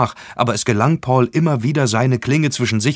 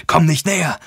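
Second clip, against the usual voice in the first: higher, louder panicked screech; 8 semitones higher, 4 dB louder than usual. A narrator's reading. Paul screeching at the approaching demon, high and loud. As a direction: shriek it out in terror. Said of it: "kreischte er".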